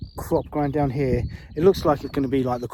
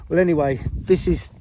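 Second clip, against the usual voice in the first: raised voice against the wind; shouting over wind; 3 dB louder than usual. Real, not acted. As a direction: talk up so you carry over the wind. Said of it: "hopefully you can hear me over this wind".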